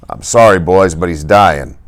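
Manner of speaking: slow, grave doctor's voice. A narrator's reading. Doctor stopping the boys at the door, grave. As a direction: break it gently but firmly.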